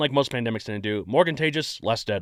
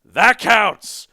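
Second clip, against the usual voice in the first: higher, louder insistence; emphatic insistence; 10 semitones higher, 10 dB louder than usual. Real, not acted. Host insisting to listeners the film counts, loud. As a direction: declare it firmly, overriding objection. Defending his movie choice.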